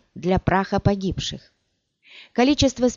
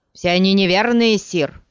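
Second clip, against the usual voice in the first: loud, fervent outcry; cried out; 2 semitones higher, 5 dB louder than usual. Acted. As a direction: shout it with zeal. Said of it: "вскричал Корба".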